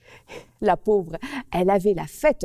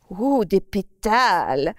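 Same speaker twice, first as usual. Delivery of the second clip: drool over the tasty petals; greedy relish; 4 dB louder than usual. Acted. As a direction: gourmandise lente d'un lapin. Rabbit savours petals.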